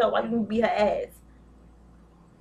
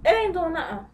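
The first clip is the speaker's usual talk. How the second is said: sassy quote; 4 semitones higher than usual. Retold or imitated. Retelling a friend's sassy advice.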